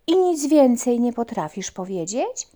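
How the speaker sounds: a puppy's curious question; lightly voiced puppy. Puppy asks again.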